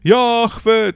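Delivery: mock shout. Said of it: "że jak krzyknie".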